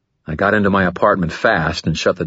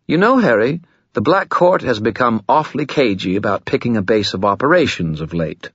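higher, evasive sly spirit; coy skull voice; 5 semitones higher than usual. Acted. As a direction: dodge the question playfully.

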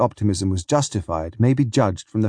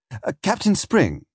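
higher-pitched, slow call to the captain; tentative hail; 7 semitones higher than usual. A narrator's reading. Fugitive accosting Captain Spring, tentative hail. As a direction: hail him hesitantly, voice lifted.

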